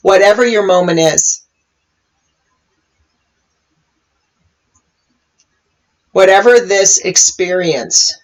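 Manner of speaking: calm meditation guiding, long pauses between phrases; guided meditation. Real, not acted. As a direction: guide listeners gently into the moment, leaving space. Leads a meditation.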